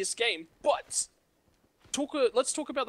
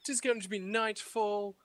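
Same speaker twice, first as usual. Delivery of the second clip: lightly put-on British intro; a hint of a posh announcer; mock British host; 3 dB quieter than usual. Introducing Nightfall, in a light mock British accent. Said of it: "Your British accent".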